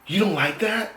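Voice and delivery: high-pitched incredulous question; all surprised. Retold or imitated. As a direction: imitate her astonished question. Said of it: "looks at me all surprised".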